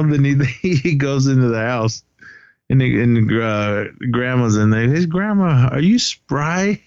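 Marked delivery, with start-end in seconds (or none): 4.9-6.8 higher, slow drawn-out mock question to granny. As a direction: ask the old lady, dragging it out. Willie asking grandma, voiced.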